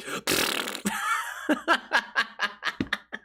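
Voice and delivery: airy wheezing laugh at himself; real giggle cracking up; breathy laugh. Real, not acted. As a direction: laugh silently, breath only. Laughing at own joke.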